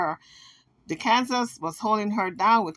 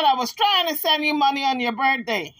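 imitating Jaguar; 4 semitones higher than usual. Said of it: "She said".

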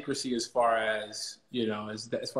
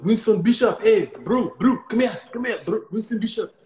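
excited fan; 9 semitones higher, 8 dB louder than usual. Retold or imitated. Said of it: "you know".

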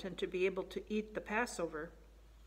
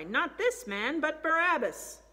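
raised, louder mob reply; crowd shout; 7 semitones higher, 6 dB louder, slower than usual. A narrator's reading. Crowd answering Pilate, shouting in reply. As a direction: shout it back as a crowd, pitched up and drawn out at the end. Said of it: "they shouted in reply".

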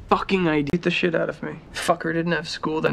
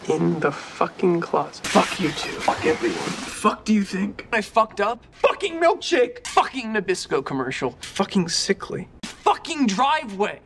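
swearing tirade. Acted. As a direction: build to a furious rant. Rapid-fire swearing montage.

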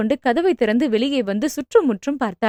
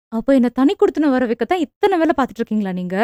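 angry; faster than usual. Acted. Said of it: "என்று கோபமாக கேட்டாள்".

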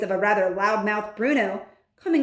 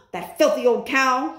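mildly shouted outrage, higher; a burst of indignant anger; angry shout; 4 semitones higher, 4 dB louder than usual. Acted. Bruno learning who bewitched him, mildly shouted outrage. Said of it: "he shouted".

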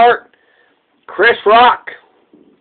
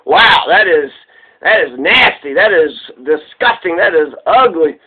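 disgusted Mooney; 5 semitones lower than usual. Retold or imitated. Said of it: "he was just like".

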